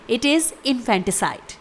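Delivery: slow model of infanticide; careful teacher's repeat; slow clear pronunciation. Shown as a demonstration. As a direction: say it slowly for learners. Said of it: "spelling है".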